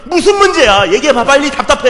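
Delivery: loud and high, exasperated; impatient yelling. Retold or imitated. Pastor at 1:30am demanding his friend speak, loud. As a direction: yell it at a friend who won't talk.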